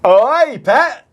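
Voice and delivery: a loud, high Geordie call of oi pet; Geordie accent. Retold or imitated. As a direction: shout it like a Newcastle local. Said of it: "in a Northern accent".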